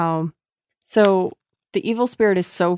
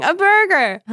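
high bright punchline; 12 semitones higher, 5 dB louder than usual. Retold or imitated. Joke punchline.

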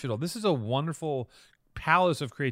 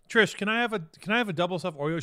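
mock dainty request; 4 semitones higher, faster than usual. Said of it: "You go".

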